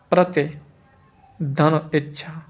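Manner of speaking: धन इच्छा spoken very slowly and softly; slow breakdown. Shown as a demonstration. Teacher splitting प्रतीक्षा into parts for students, slowly. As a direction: draw out धन इच्छा gently, part by part. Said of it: "प्रतिधन इच्छा".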